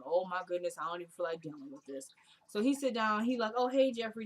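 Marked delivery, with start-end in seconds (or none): 0.0-2.1 low, weary eye-roll; quietly fed up; exasperated. Retold or imitated. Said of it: "He already rolling his eyes like". 3.5-4.2 lightly upbeat imitated hello; mildly chirpy retold greeting; friendly greeting. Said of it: "Jeffrey kinda trying to ignore him".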